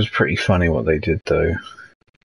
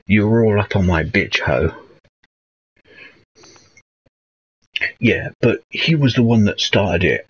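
lightly posh pilot talking street slang; mock street talk in a posh old voice; posh pilots' street talk. Streamer imitating sketch pilots griping mid-dogfight, lightly posh street talk. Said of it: "they were doing it in the".

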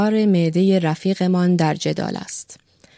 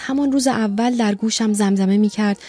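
put-on lightly higher, rapt young man picturing his wife; dreamy young lover; 5 semitones higher than usual. Young secretary dreamily describes his wife to the doctor. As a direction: paint her lovingly, lost in the image. Secretary recalls wife's whispers.

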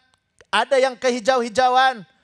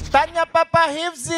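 tagline call-out. Pretend. Host calls the audience to respond, tagline call-out. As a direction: sing out the show's tagline like a host. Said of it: "maka ada tagline-tagline yang harus dilakukan".

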